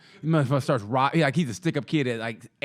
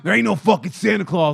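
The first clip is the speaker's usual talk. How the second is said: louder, gruff-styled mock punk; tough kid; 2 semitones higher, 6 dB louder than usual. Smoking jaded kid announcing Santa isn't real, louder. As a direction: declare it like a kid with a cigarette.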